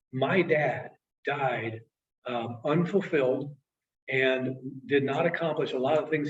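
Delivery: understated grief, slow and halting; retold tearing up. Client telling of his late father's regrets, tearing up slightly. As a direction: hold back tears, pausing between phrases. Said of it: "he starts tearing up".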